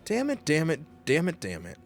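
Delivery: lightly voiced sleazy villain; mock villain dub. Gamer dubbing the game villain, hammed-up menace. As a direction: play the smug brute.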